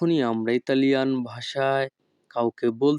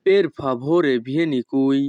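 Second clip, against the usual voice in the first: each Italian word spoken slowly and clearly; teacher modelling Italian for learners, very slow; slow demo; much slower than usual. Shown as a demonstration. Bengali teacher models Italian phrase for students, slow and careful. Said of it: "Italian ভাষা".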